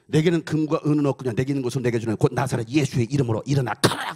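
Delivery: proclaimed like a revival preacher; healing command. Retold or imitated. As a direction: command the lame man to rise. Evangelist commanding a lame man to walk.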